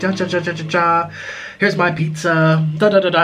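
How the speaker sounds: put-on Italian accent. Recalling talking like an Italian person in a pasta video, fake Italian accent. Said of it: "I literally talked like an Italian person".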